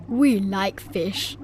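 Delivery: Mister Cat voice. A narrator's reading.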